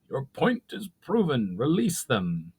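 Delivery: firm, nasal command; stern goblin chief. A narrator's reading. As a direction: settle it with authority. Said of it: "stern command".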